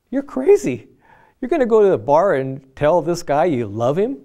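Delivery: half-hearted imitation of a scolding wife; mock wife scolding. Wife's scornful quote retold.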